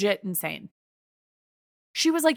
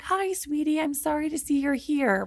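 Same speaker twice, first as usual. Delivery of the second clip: sweet nurse voice; 5 semitones higher than usual. Retold or imitated. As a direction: coo gently like a kind nurse.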